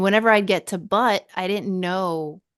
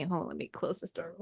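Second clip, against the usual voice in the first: speaking while closing a door; turned away, shutting the door; closing door mid sentence; 3 semitones lower, 14 dB quieter, faster than usual. Real, not acted. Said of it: "The dog came in here".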